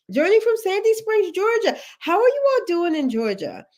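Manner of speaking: host greeting viewers from Georgia; excited shout-out. Real, not acted. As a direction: call out the city with delight. Reading viewer locations.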